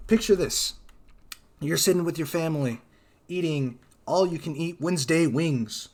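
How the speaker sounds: hammed-up announcer pitch; mock ad read. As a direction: sell it like a commercial.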